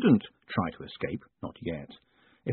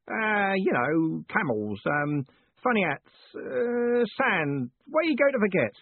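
put-on old Parker roaring; 9 semitones higher, slower than usual. A narrator's reading. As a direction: roar it like a deaf old soldier. Parker groping for word.

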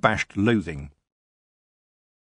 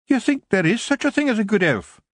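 much higher, Scottish brogue, gruff little Feegle; a wee Scottish warrior scoffing at the elf; tiny Scottish Feegle grumbling about elves; 13 semitones higher, 3 dB louder than usual. A narrator's reading. Kelder scoffs.

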